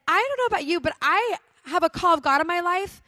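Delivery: the retold declaration pushed up to preaching force; bold declaration. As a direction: proclaim it like a call to arms. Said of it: "And so I said".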